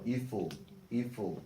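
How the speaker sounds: ordinary delivery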